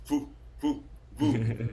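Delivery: mock woozy sound. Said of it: "I just remember this sound".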